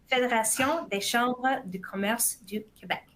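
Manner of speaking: a touch of Quebec French on the name; French accent. Shown as a demonstration. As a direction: say Fédération des Chambres du Commerce du Québec in a light French accent. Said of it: "here we go with my French accent".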